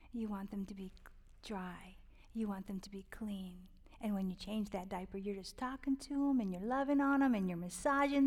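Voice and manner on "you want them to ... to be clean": soft unvoiced whisper. Real, not acted. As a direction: let it out on the breath. Tender aside about babies.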